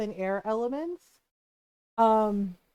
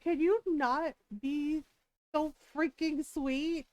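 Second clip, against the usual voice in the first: mock exasperation; 5 semitones higher, slower than usual. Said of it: "we kinda laughed about it 'cause I was like".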